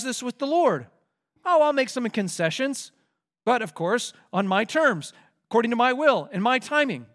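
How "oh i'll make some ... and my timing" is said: a hint of a haughty king bargaining, a bit higher; lightly voiced Pharaoh. Preacher voicing Pharaoh's smug bargaining, lightly. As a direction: play Pharaoh granting favors on his own terms.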